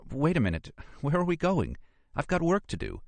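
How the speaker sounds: high-pitched woman's character voice; Nora protesting. Acted. Archaeologist suddenly balks at following him, high protesting voice.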